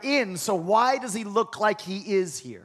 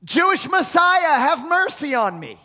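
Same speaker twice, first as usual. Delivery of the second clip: loud, high plea; crying out; 5 semitones higher, 4 dB louder than usual. Acted. Woman crying out to Jesus, loud and high. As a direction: call out desperately for mercy. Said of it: "she's crying out".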